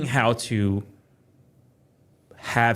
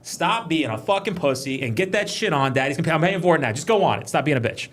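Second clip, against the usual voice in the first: higher, full-voiced dad nagging; exasperated urging; 5 semitones higher than usual. Dad pushing kids onto a paid ride, exasperated urging. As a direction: push the kid along, voice raised in pitch.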